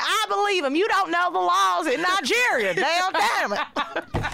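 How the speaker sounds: mock defensive wife. Wife insisting to her daughter and friends that he is honest, in a high put-on voice. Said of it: "accents that you were putting on".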